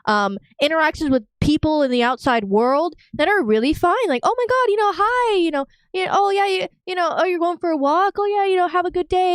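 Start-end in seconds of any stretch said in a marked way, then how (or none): 4.2-9.3 high, sing-song fake niceness; lightly hammed-up pleasant small talk; mock friendly chirp. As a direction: gush like a cheerful stranger.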